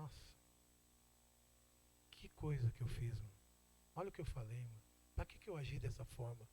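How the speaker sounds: low, hushed self-reproach; quiet regret. Acted. Church member looking back on his outburst, quietly remorseful. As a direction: drop the voice, regretting it to yourself.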